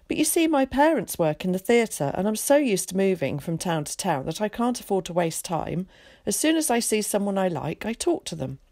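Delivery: a lightly voiced chatty, confident boy; eager boy Zack. Zack introducing himself to Willie, lightly voiced and breezy. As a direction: play a breezy, talkative schoolboy.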